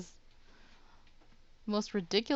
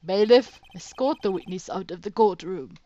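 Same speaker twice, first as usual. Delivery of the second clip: commanding shout; 7 dB louder than usual. Acted. Godot orders witness removed.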